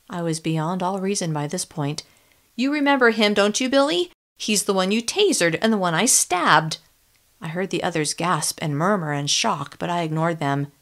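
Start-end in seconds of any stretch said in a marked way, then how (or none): 2.6-6.8 angry sarcastic jab; furious taunt. Acted. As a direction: throw it at him in fury. Furious confrontation with Billy.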